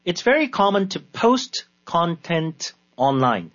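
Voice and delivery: very slow, word-by-word repeat; slow dictation. Shown as a demonstration. Teacher repeating the example for learners, slow dictation. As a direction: break the sentence into spaced single words.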